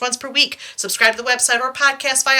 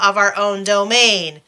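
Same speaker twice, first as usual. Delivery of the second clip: evil villain; 4 semitones lower, 3 dB louder, slower than usual. Acted. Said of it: "that did take a slightly evil turn".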